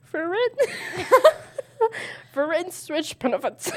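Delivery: playful odd voice breaking into giggles; weird voice. Pretend. Player told to try a weird voice, giggly silly voice. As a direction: put on a silly voice and crack up. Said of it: "say it in a weird voice".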